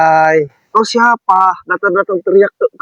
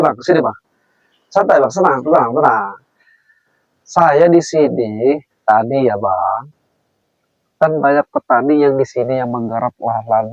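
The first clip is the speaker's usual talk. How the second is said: calm explaining; 3 semitones lower than usual. Acted. Calming angry preman.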